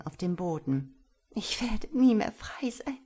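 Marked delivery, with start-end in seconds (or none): 1.3-3.0 whisper. Acted. Princess despairs, a tear falls.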